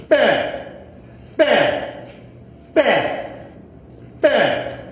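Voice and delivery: mimicked gunshots. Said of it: "This is what he was doing".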